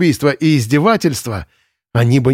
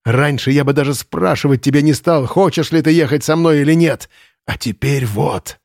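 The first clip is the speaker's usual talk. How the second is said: frenzied retort; 4 semitones higher than usual. Acted. Lenz answers in frenzy.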